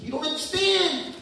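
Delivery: high, loud, exclaiming with love; God pleading. Pretend. God urging the sad girl to talk, high and loud. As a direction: beg her to tell what's wrong.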